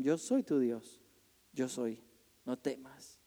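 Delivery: soft, fading words of comfort; hushed reassurance. Acted. God soothing the frightened believer, hushed and tender.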